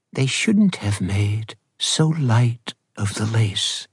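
put-on slow, gentle old lady; lightly voiced sweet grandmother. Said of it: "in her sweet old lady voice".

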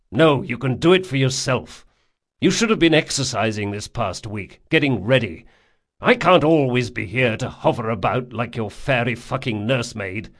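exasperated friend, firm and irritated; gruff scolding man. Acted. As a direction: scold him like a tired nurse. Jean scolds Locke.

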